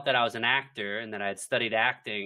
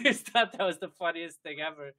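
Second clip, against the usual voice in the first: laughing; 3 semitones higher than usual. Real, not acted. Laughing at the party joke.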